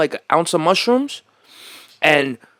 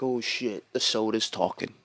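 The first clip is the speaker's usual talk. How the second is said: stoned panic; 6 semitones lower than usual. Retold or imitated. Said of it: "I'm at work like".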